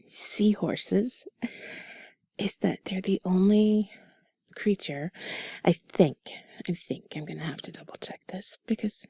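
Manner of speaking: soft breathy whisper, close to mic; sultry narrator. Acted. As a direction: whisper it like sweet nothings. Whispered intimate chat continues.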